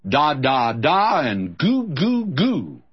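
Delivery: mimicking a baby's babble, slowing down; baby talk. Preacher mocking saints who want baby talk. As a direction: babble like an infant, drawn out. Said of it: "All they understood was baby talk".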